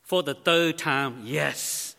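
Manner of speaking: lightly voiced exasperated wife; a touch of weary irritation; wife snapping back after the third call; slightly annoyed. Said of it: "with a slightly annoyed expression".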